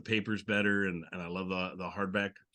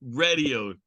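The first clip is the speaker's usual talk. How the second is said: laughing through it; 7 semitones higher, 8 dB louder than usual. Real, not acted. Host laughing at his own joke while teasing his co-host. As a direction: giggle out the line while tripping over it.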